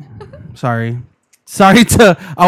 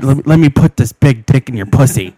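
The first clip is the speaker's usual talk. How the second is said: low, louder macho come-on; straight guy impression; 4 semitones lower, 5 dB louder than usual. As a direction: play a crude straight man, pitched down. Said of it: "this is something he would say".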